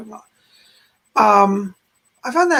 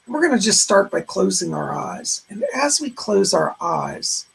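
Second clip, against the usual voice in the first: guided meditation. Acted. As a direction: ease them into calm. Leads a meditation.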